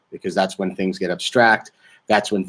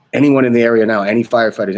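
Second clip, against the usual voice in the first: imitating a frantic radio call-out, louder and higher; mock urgent broadcast plea; frantic newscaster; 3 semitones higher, 5 dB louder, faster than usual. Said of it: "the newscaster is losing her mind".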